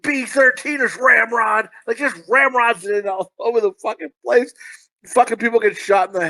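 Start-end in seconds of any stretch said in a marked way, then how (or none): 0.0-1.7 cheesy nineties cop calling out the name; mock cop. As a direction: bark it like a dumb movie cop waking his buddy. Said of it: "that cop who just tries to fit in the word ramrod".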